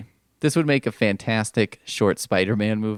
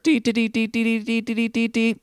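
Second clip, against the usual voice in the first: high chirpy alarm beeps; spider-sense alarm; 14 semitones higher than usual. Retold or imitated. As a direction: beep like a superhero power alert. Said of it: "new spider power alert".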